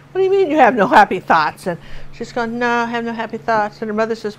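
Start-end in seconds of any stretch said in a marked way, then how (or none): 0.1-1.7 mildly incredulous mother, retold; imitated mother. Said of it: "her mother's going". 2.6-3.8 child's mopey Southern drawl, imitated. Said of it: "picked up a Southern accent".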